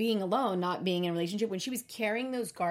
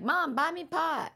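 put-on teen daughter voice; 8 semitones higher, slower than usual.

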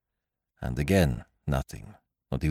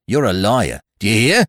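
loud, higher taunting accusation; angry accusation; 4 semitones higher, 7 dB louder than usual. A narrator's reading. Chambermaid advancing on the French girl, angry. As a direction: advance on her as you say it. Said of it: "said the chambermaid, advancing upon her".

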